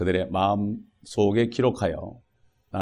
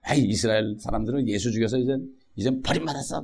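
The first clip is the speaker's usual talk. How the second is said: Gyeongsang dialect. Retold or imitated. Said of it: "경상도 말로".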